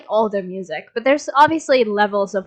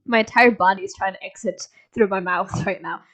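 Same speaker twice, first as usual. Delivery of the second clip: laughing. Real, not acted. Laughing about feeling sick.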